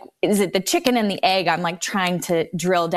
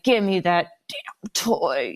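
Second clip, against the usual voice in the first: a hushed whispered demand; mock whisper growl; slower than usual. Mother imitating her son demanding a toy, whispered. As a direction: imitate a stubborn boy's grumbled whisper.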